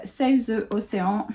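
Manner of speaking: English with a French accent; accent français en anglais. Real, not acted. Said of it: "Quel accent magnifique". (accent français assumé en anglais)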